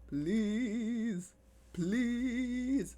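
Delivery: high, loud whiny plea; whiny begging. Pretend. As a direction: beg like a pleading child.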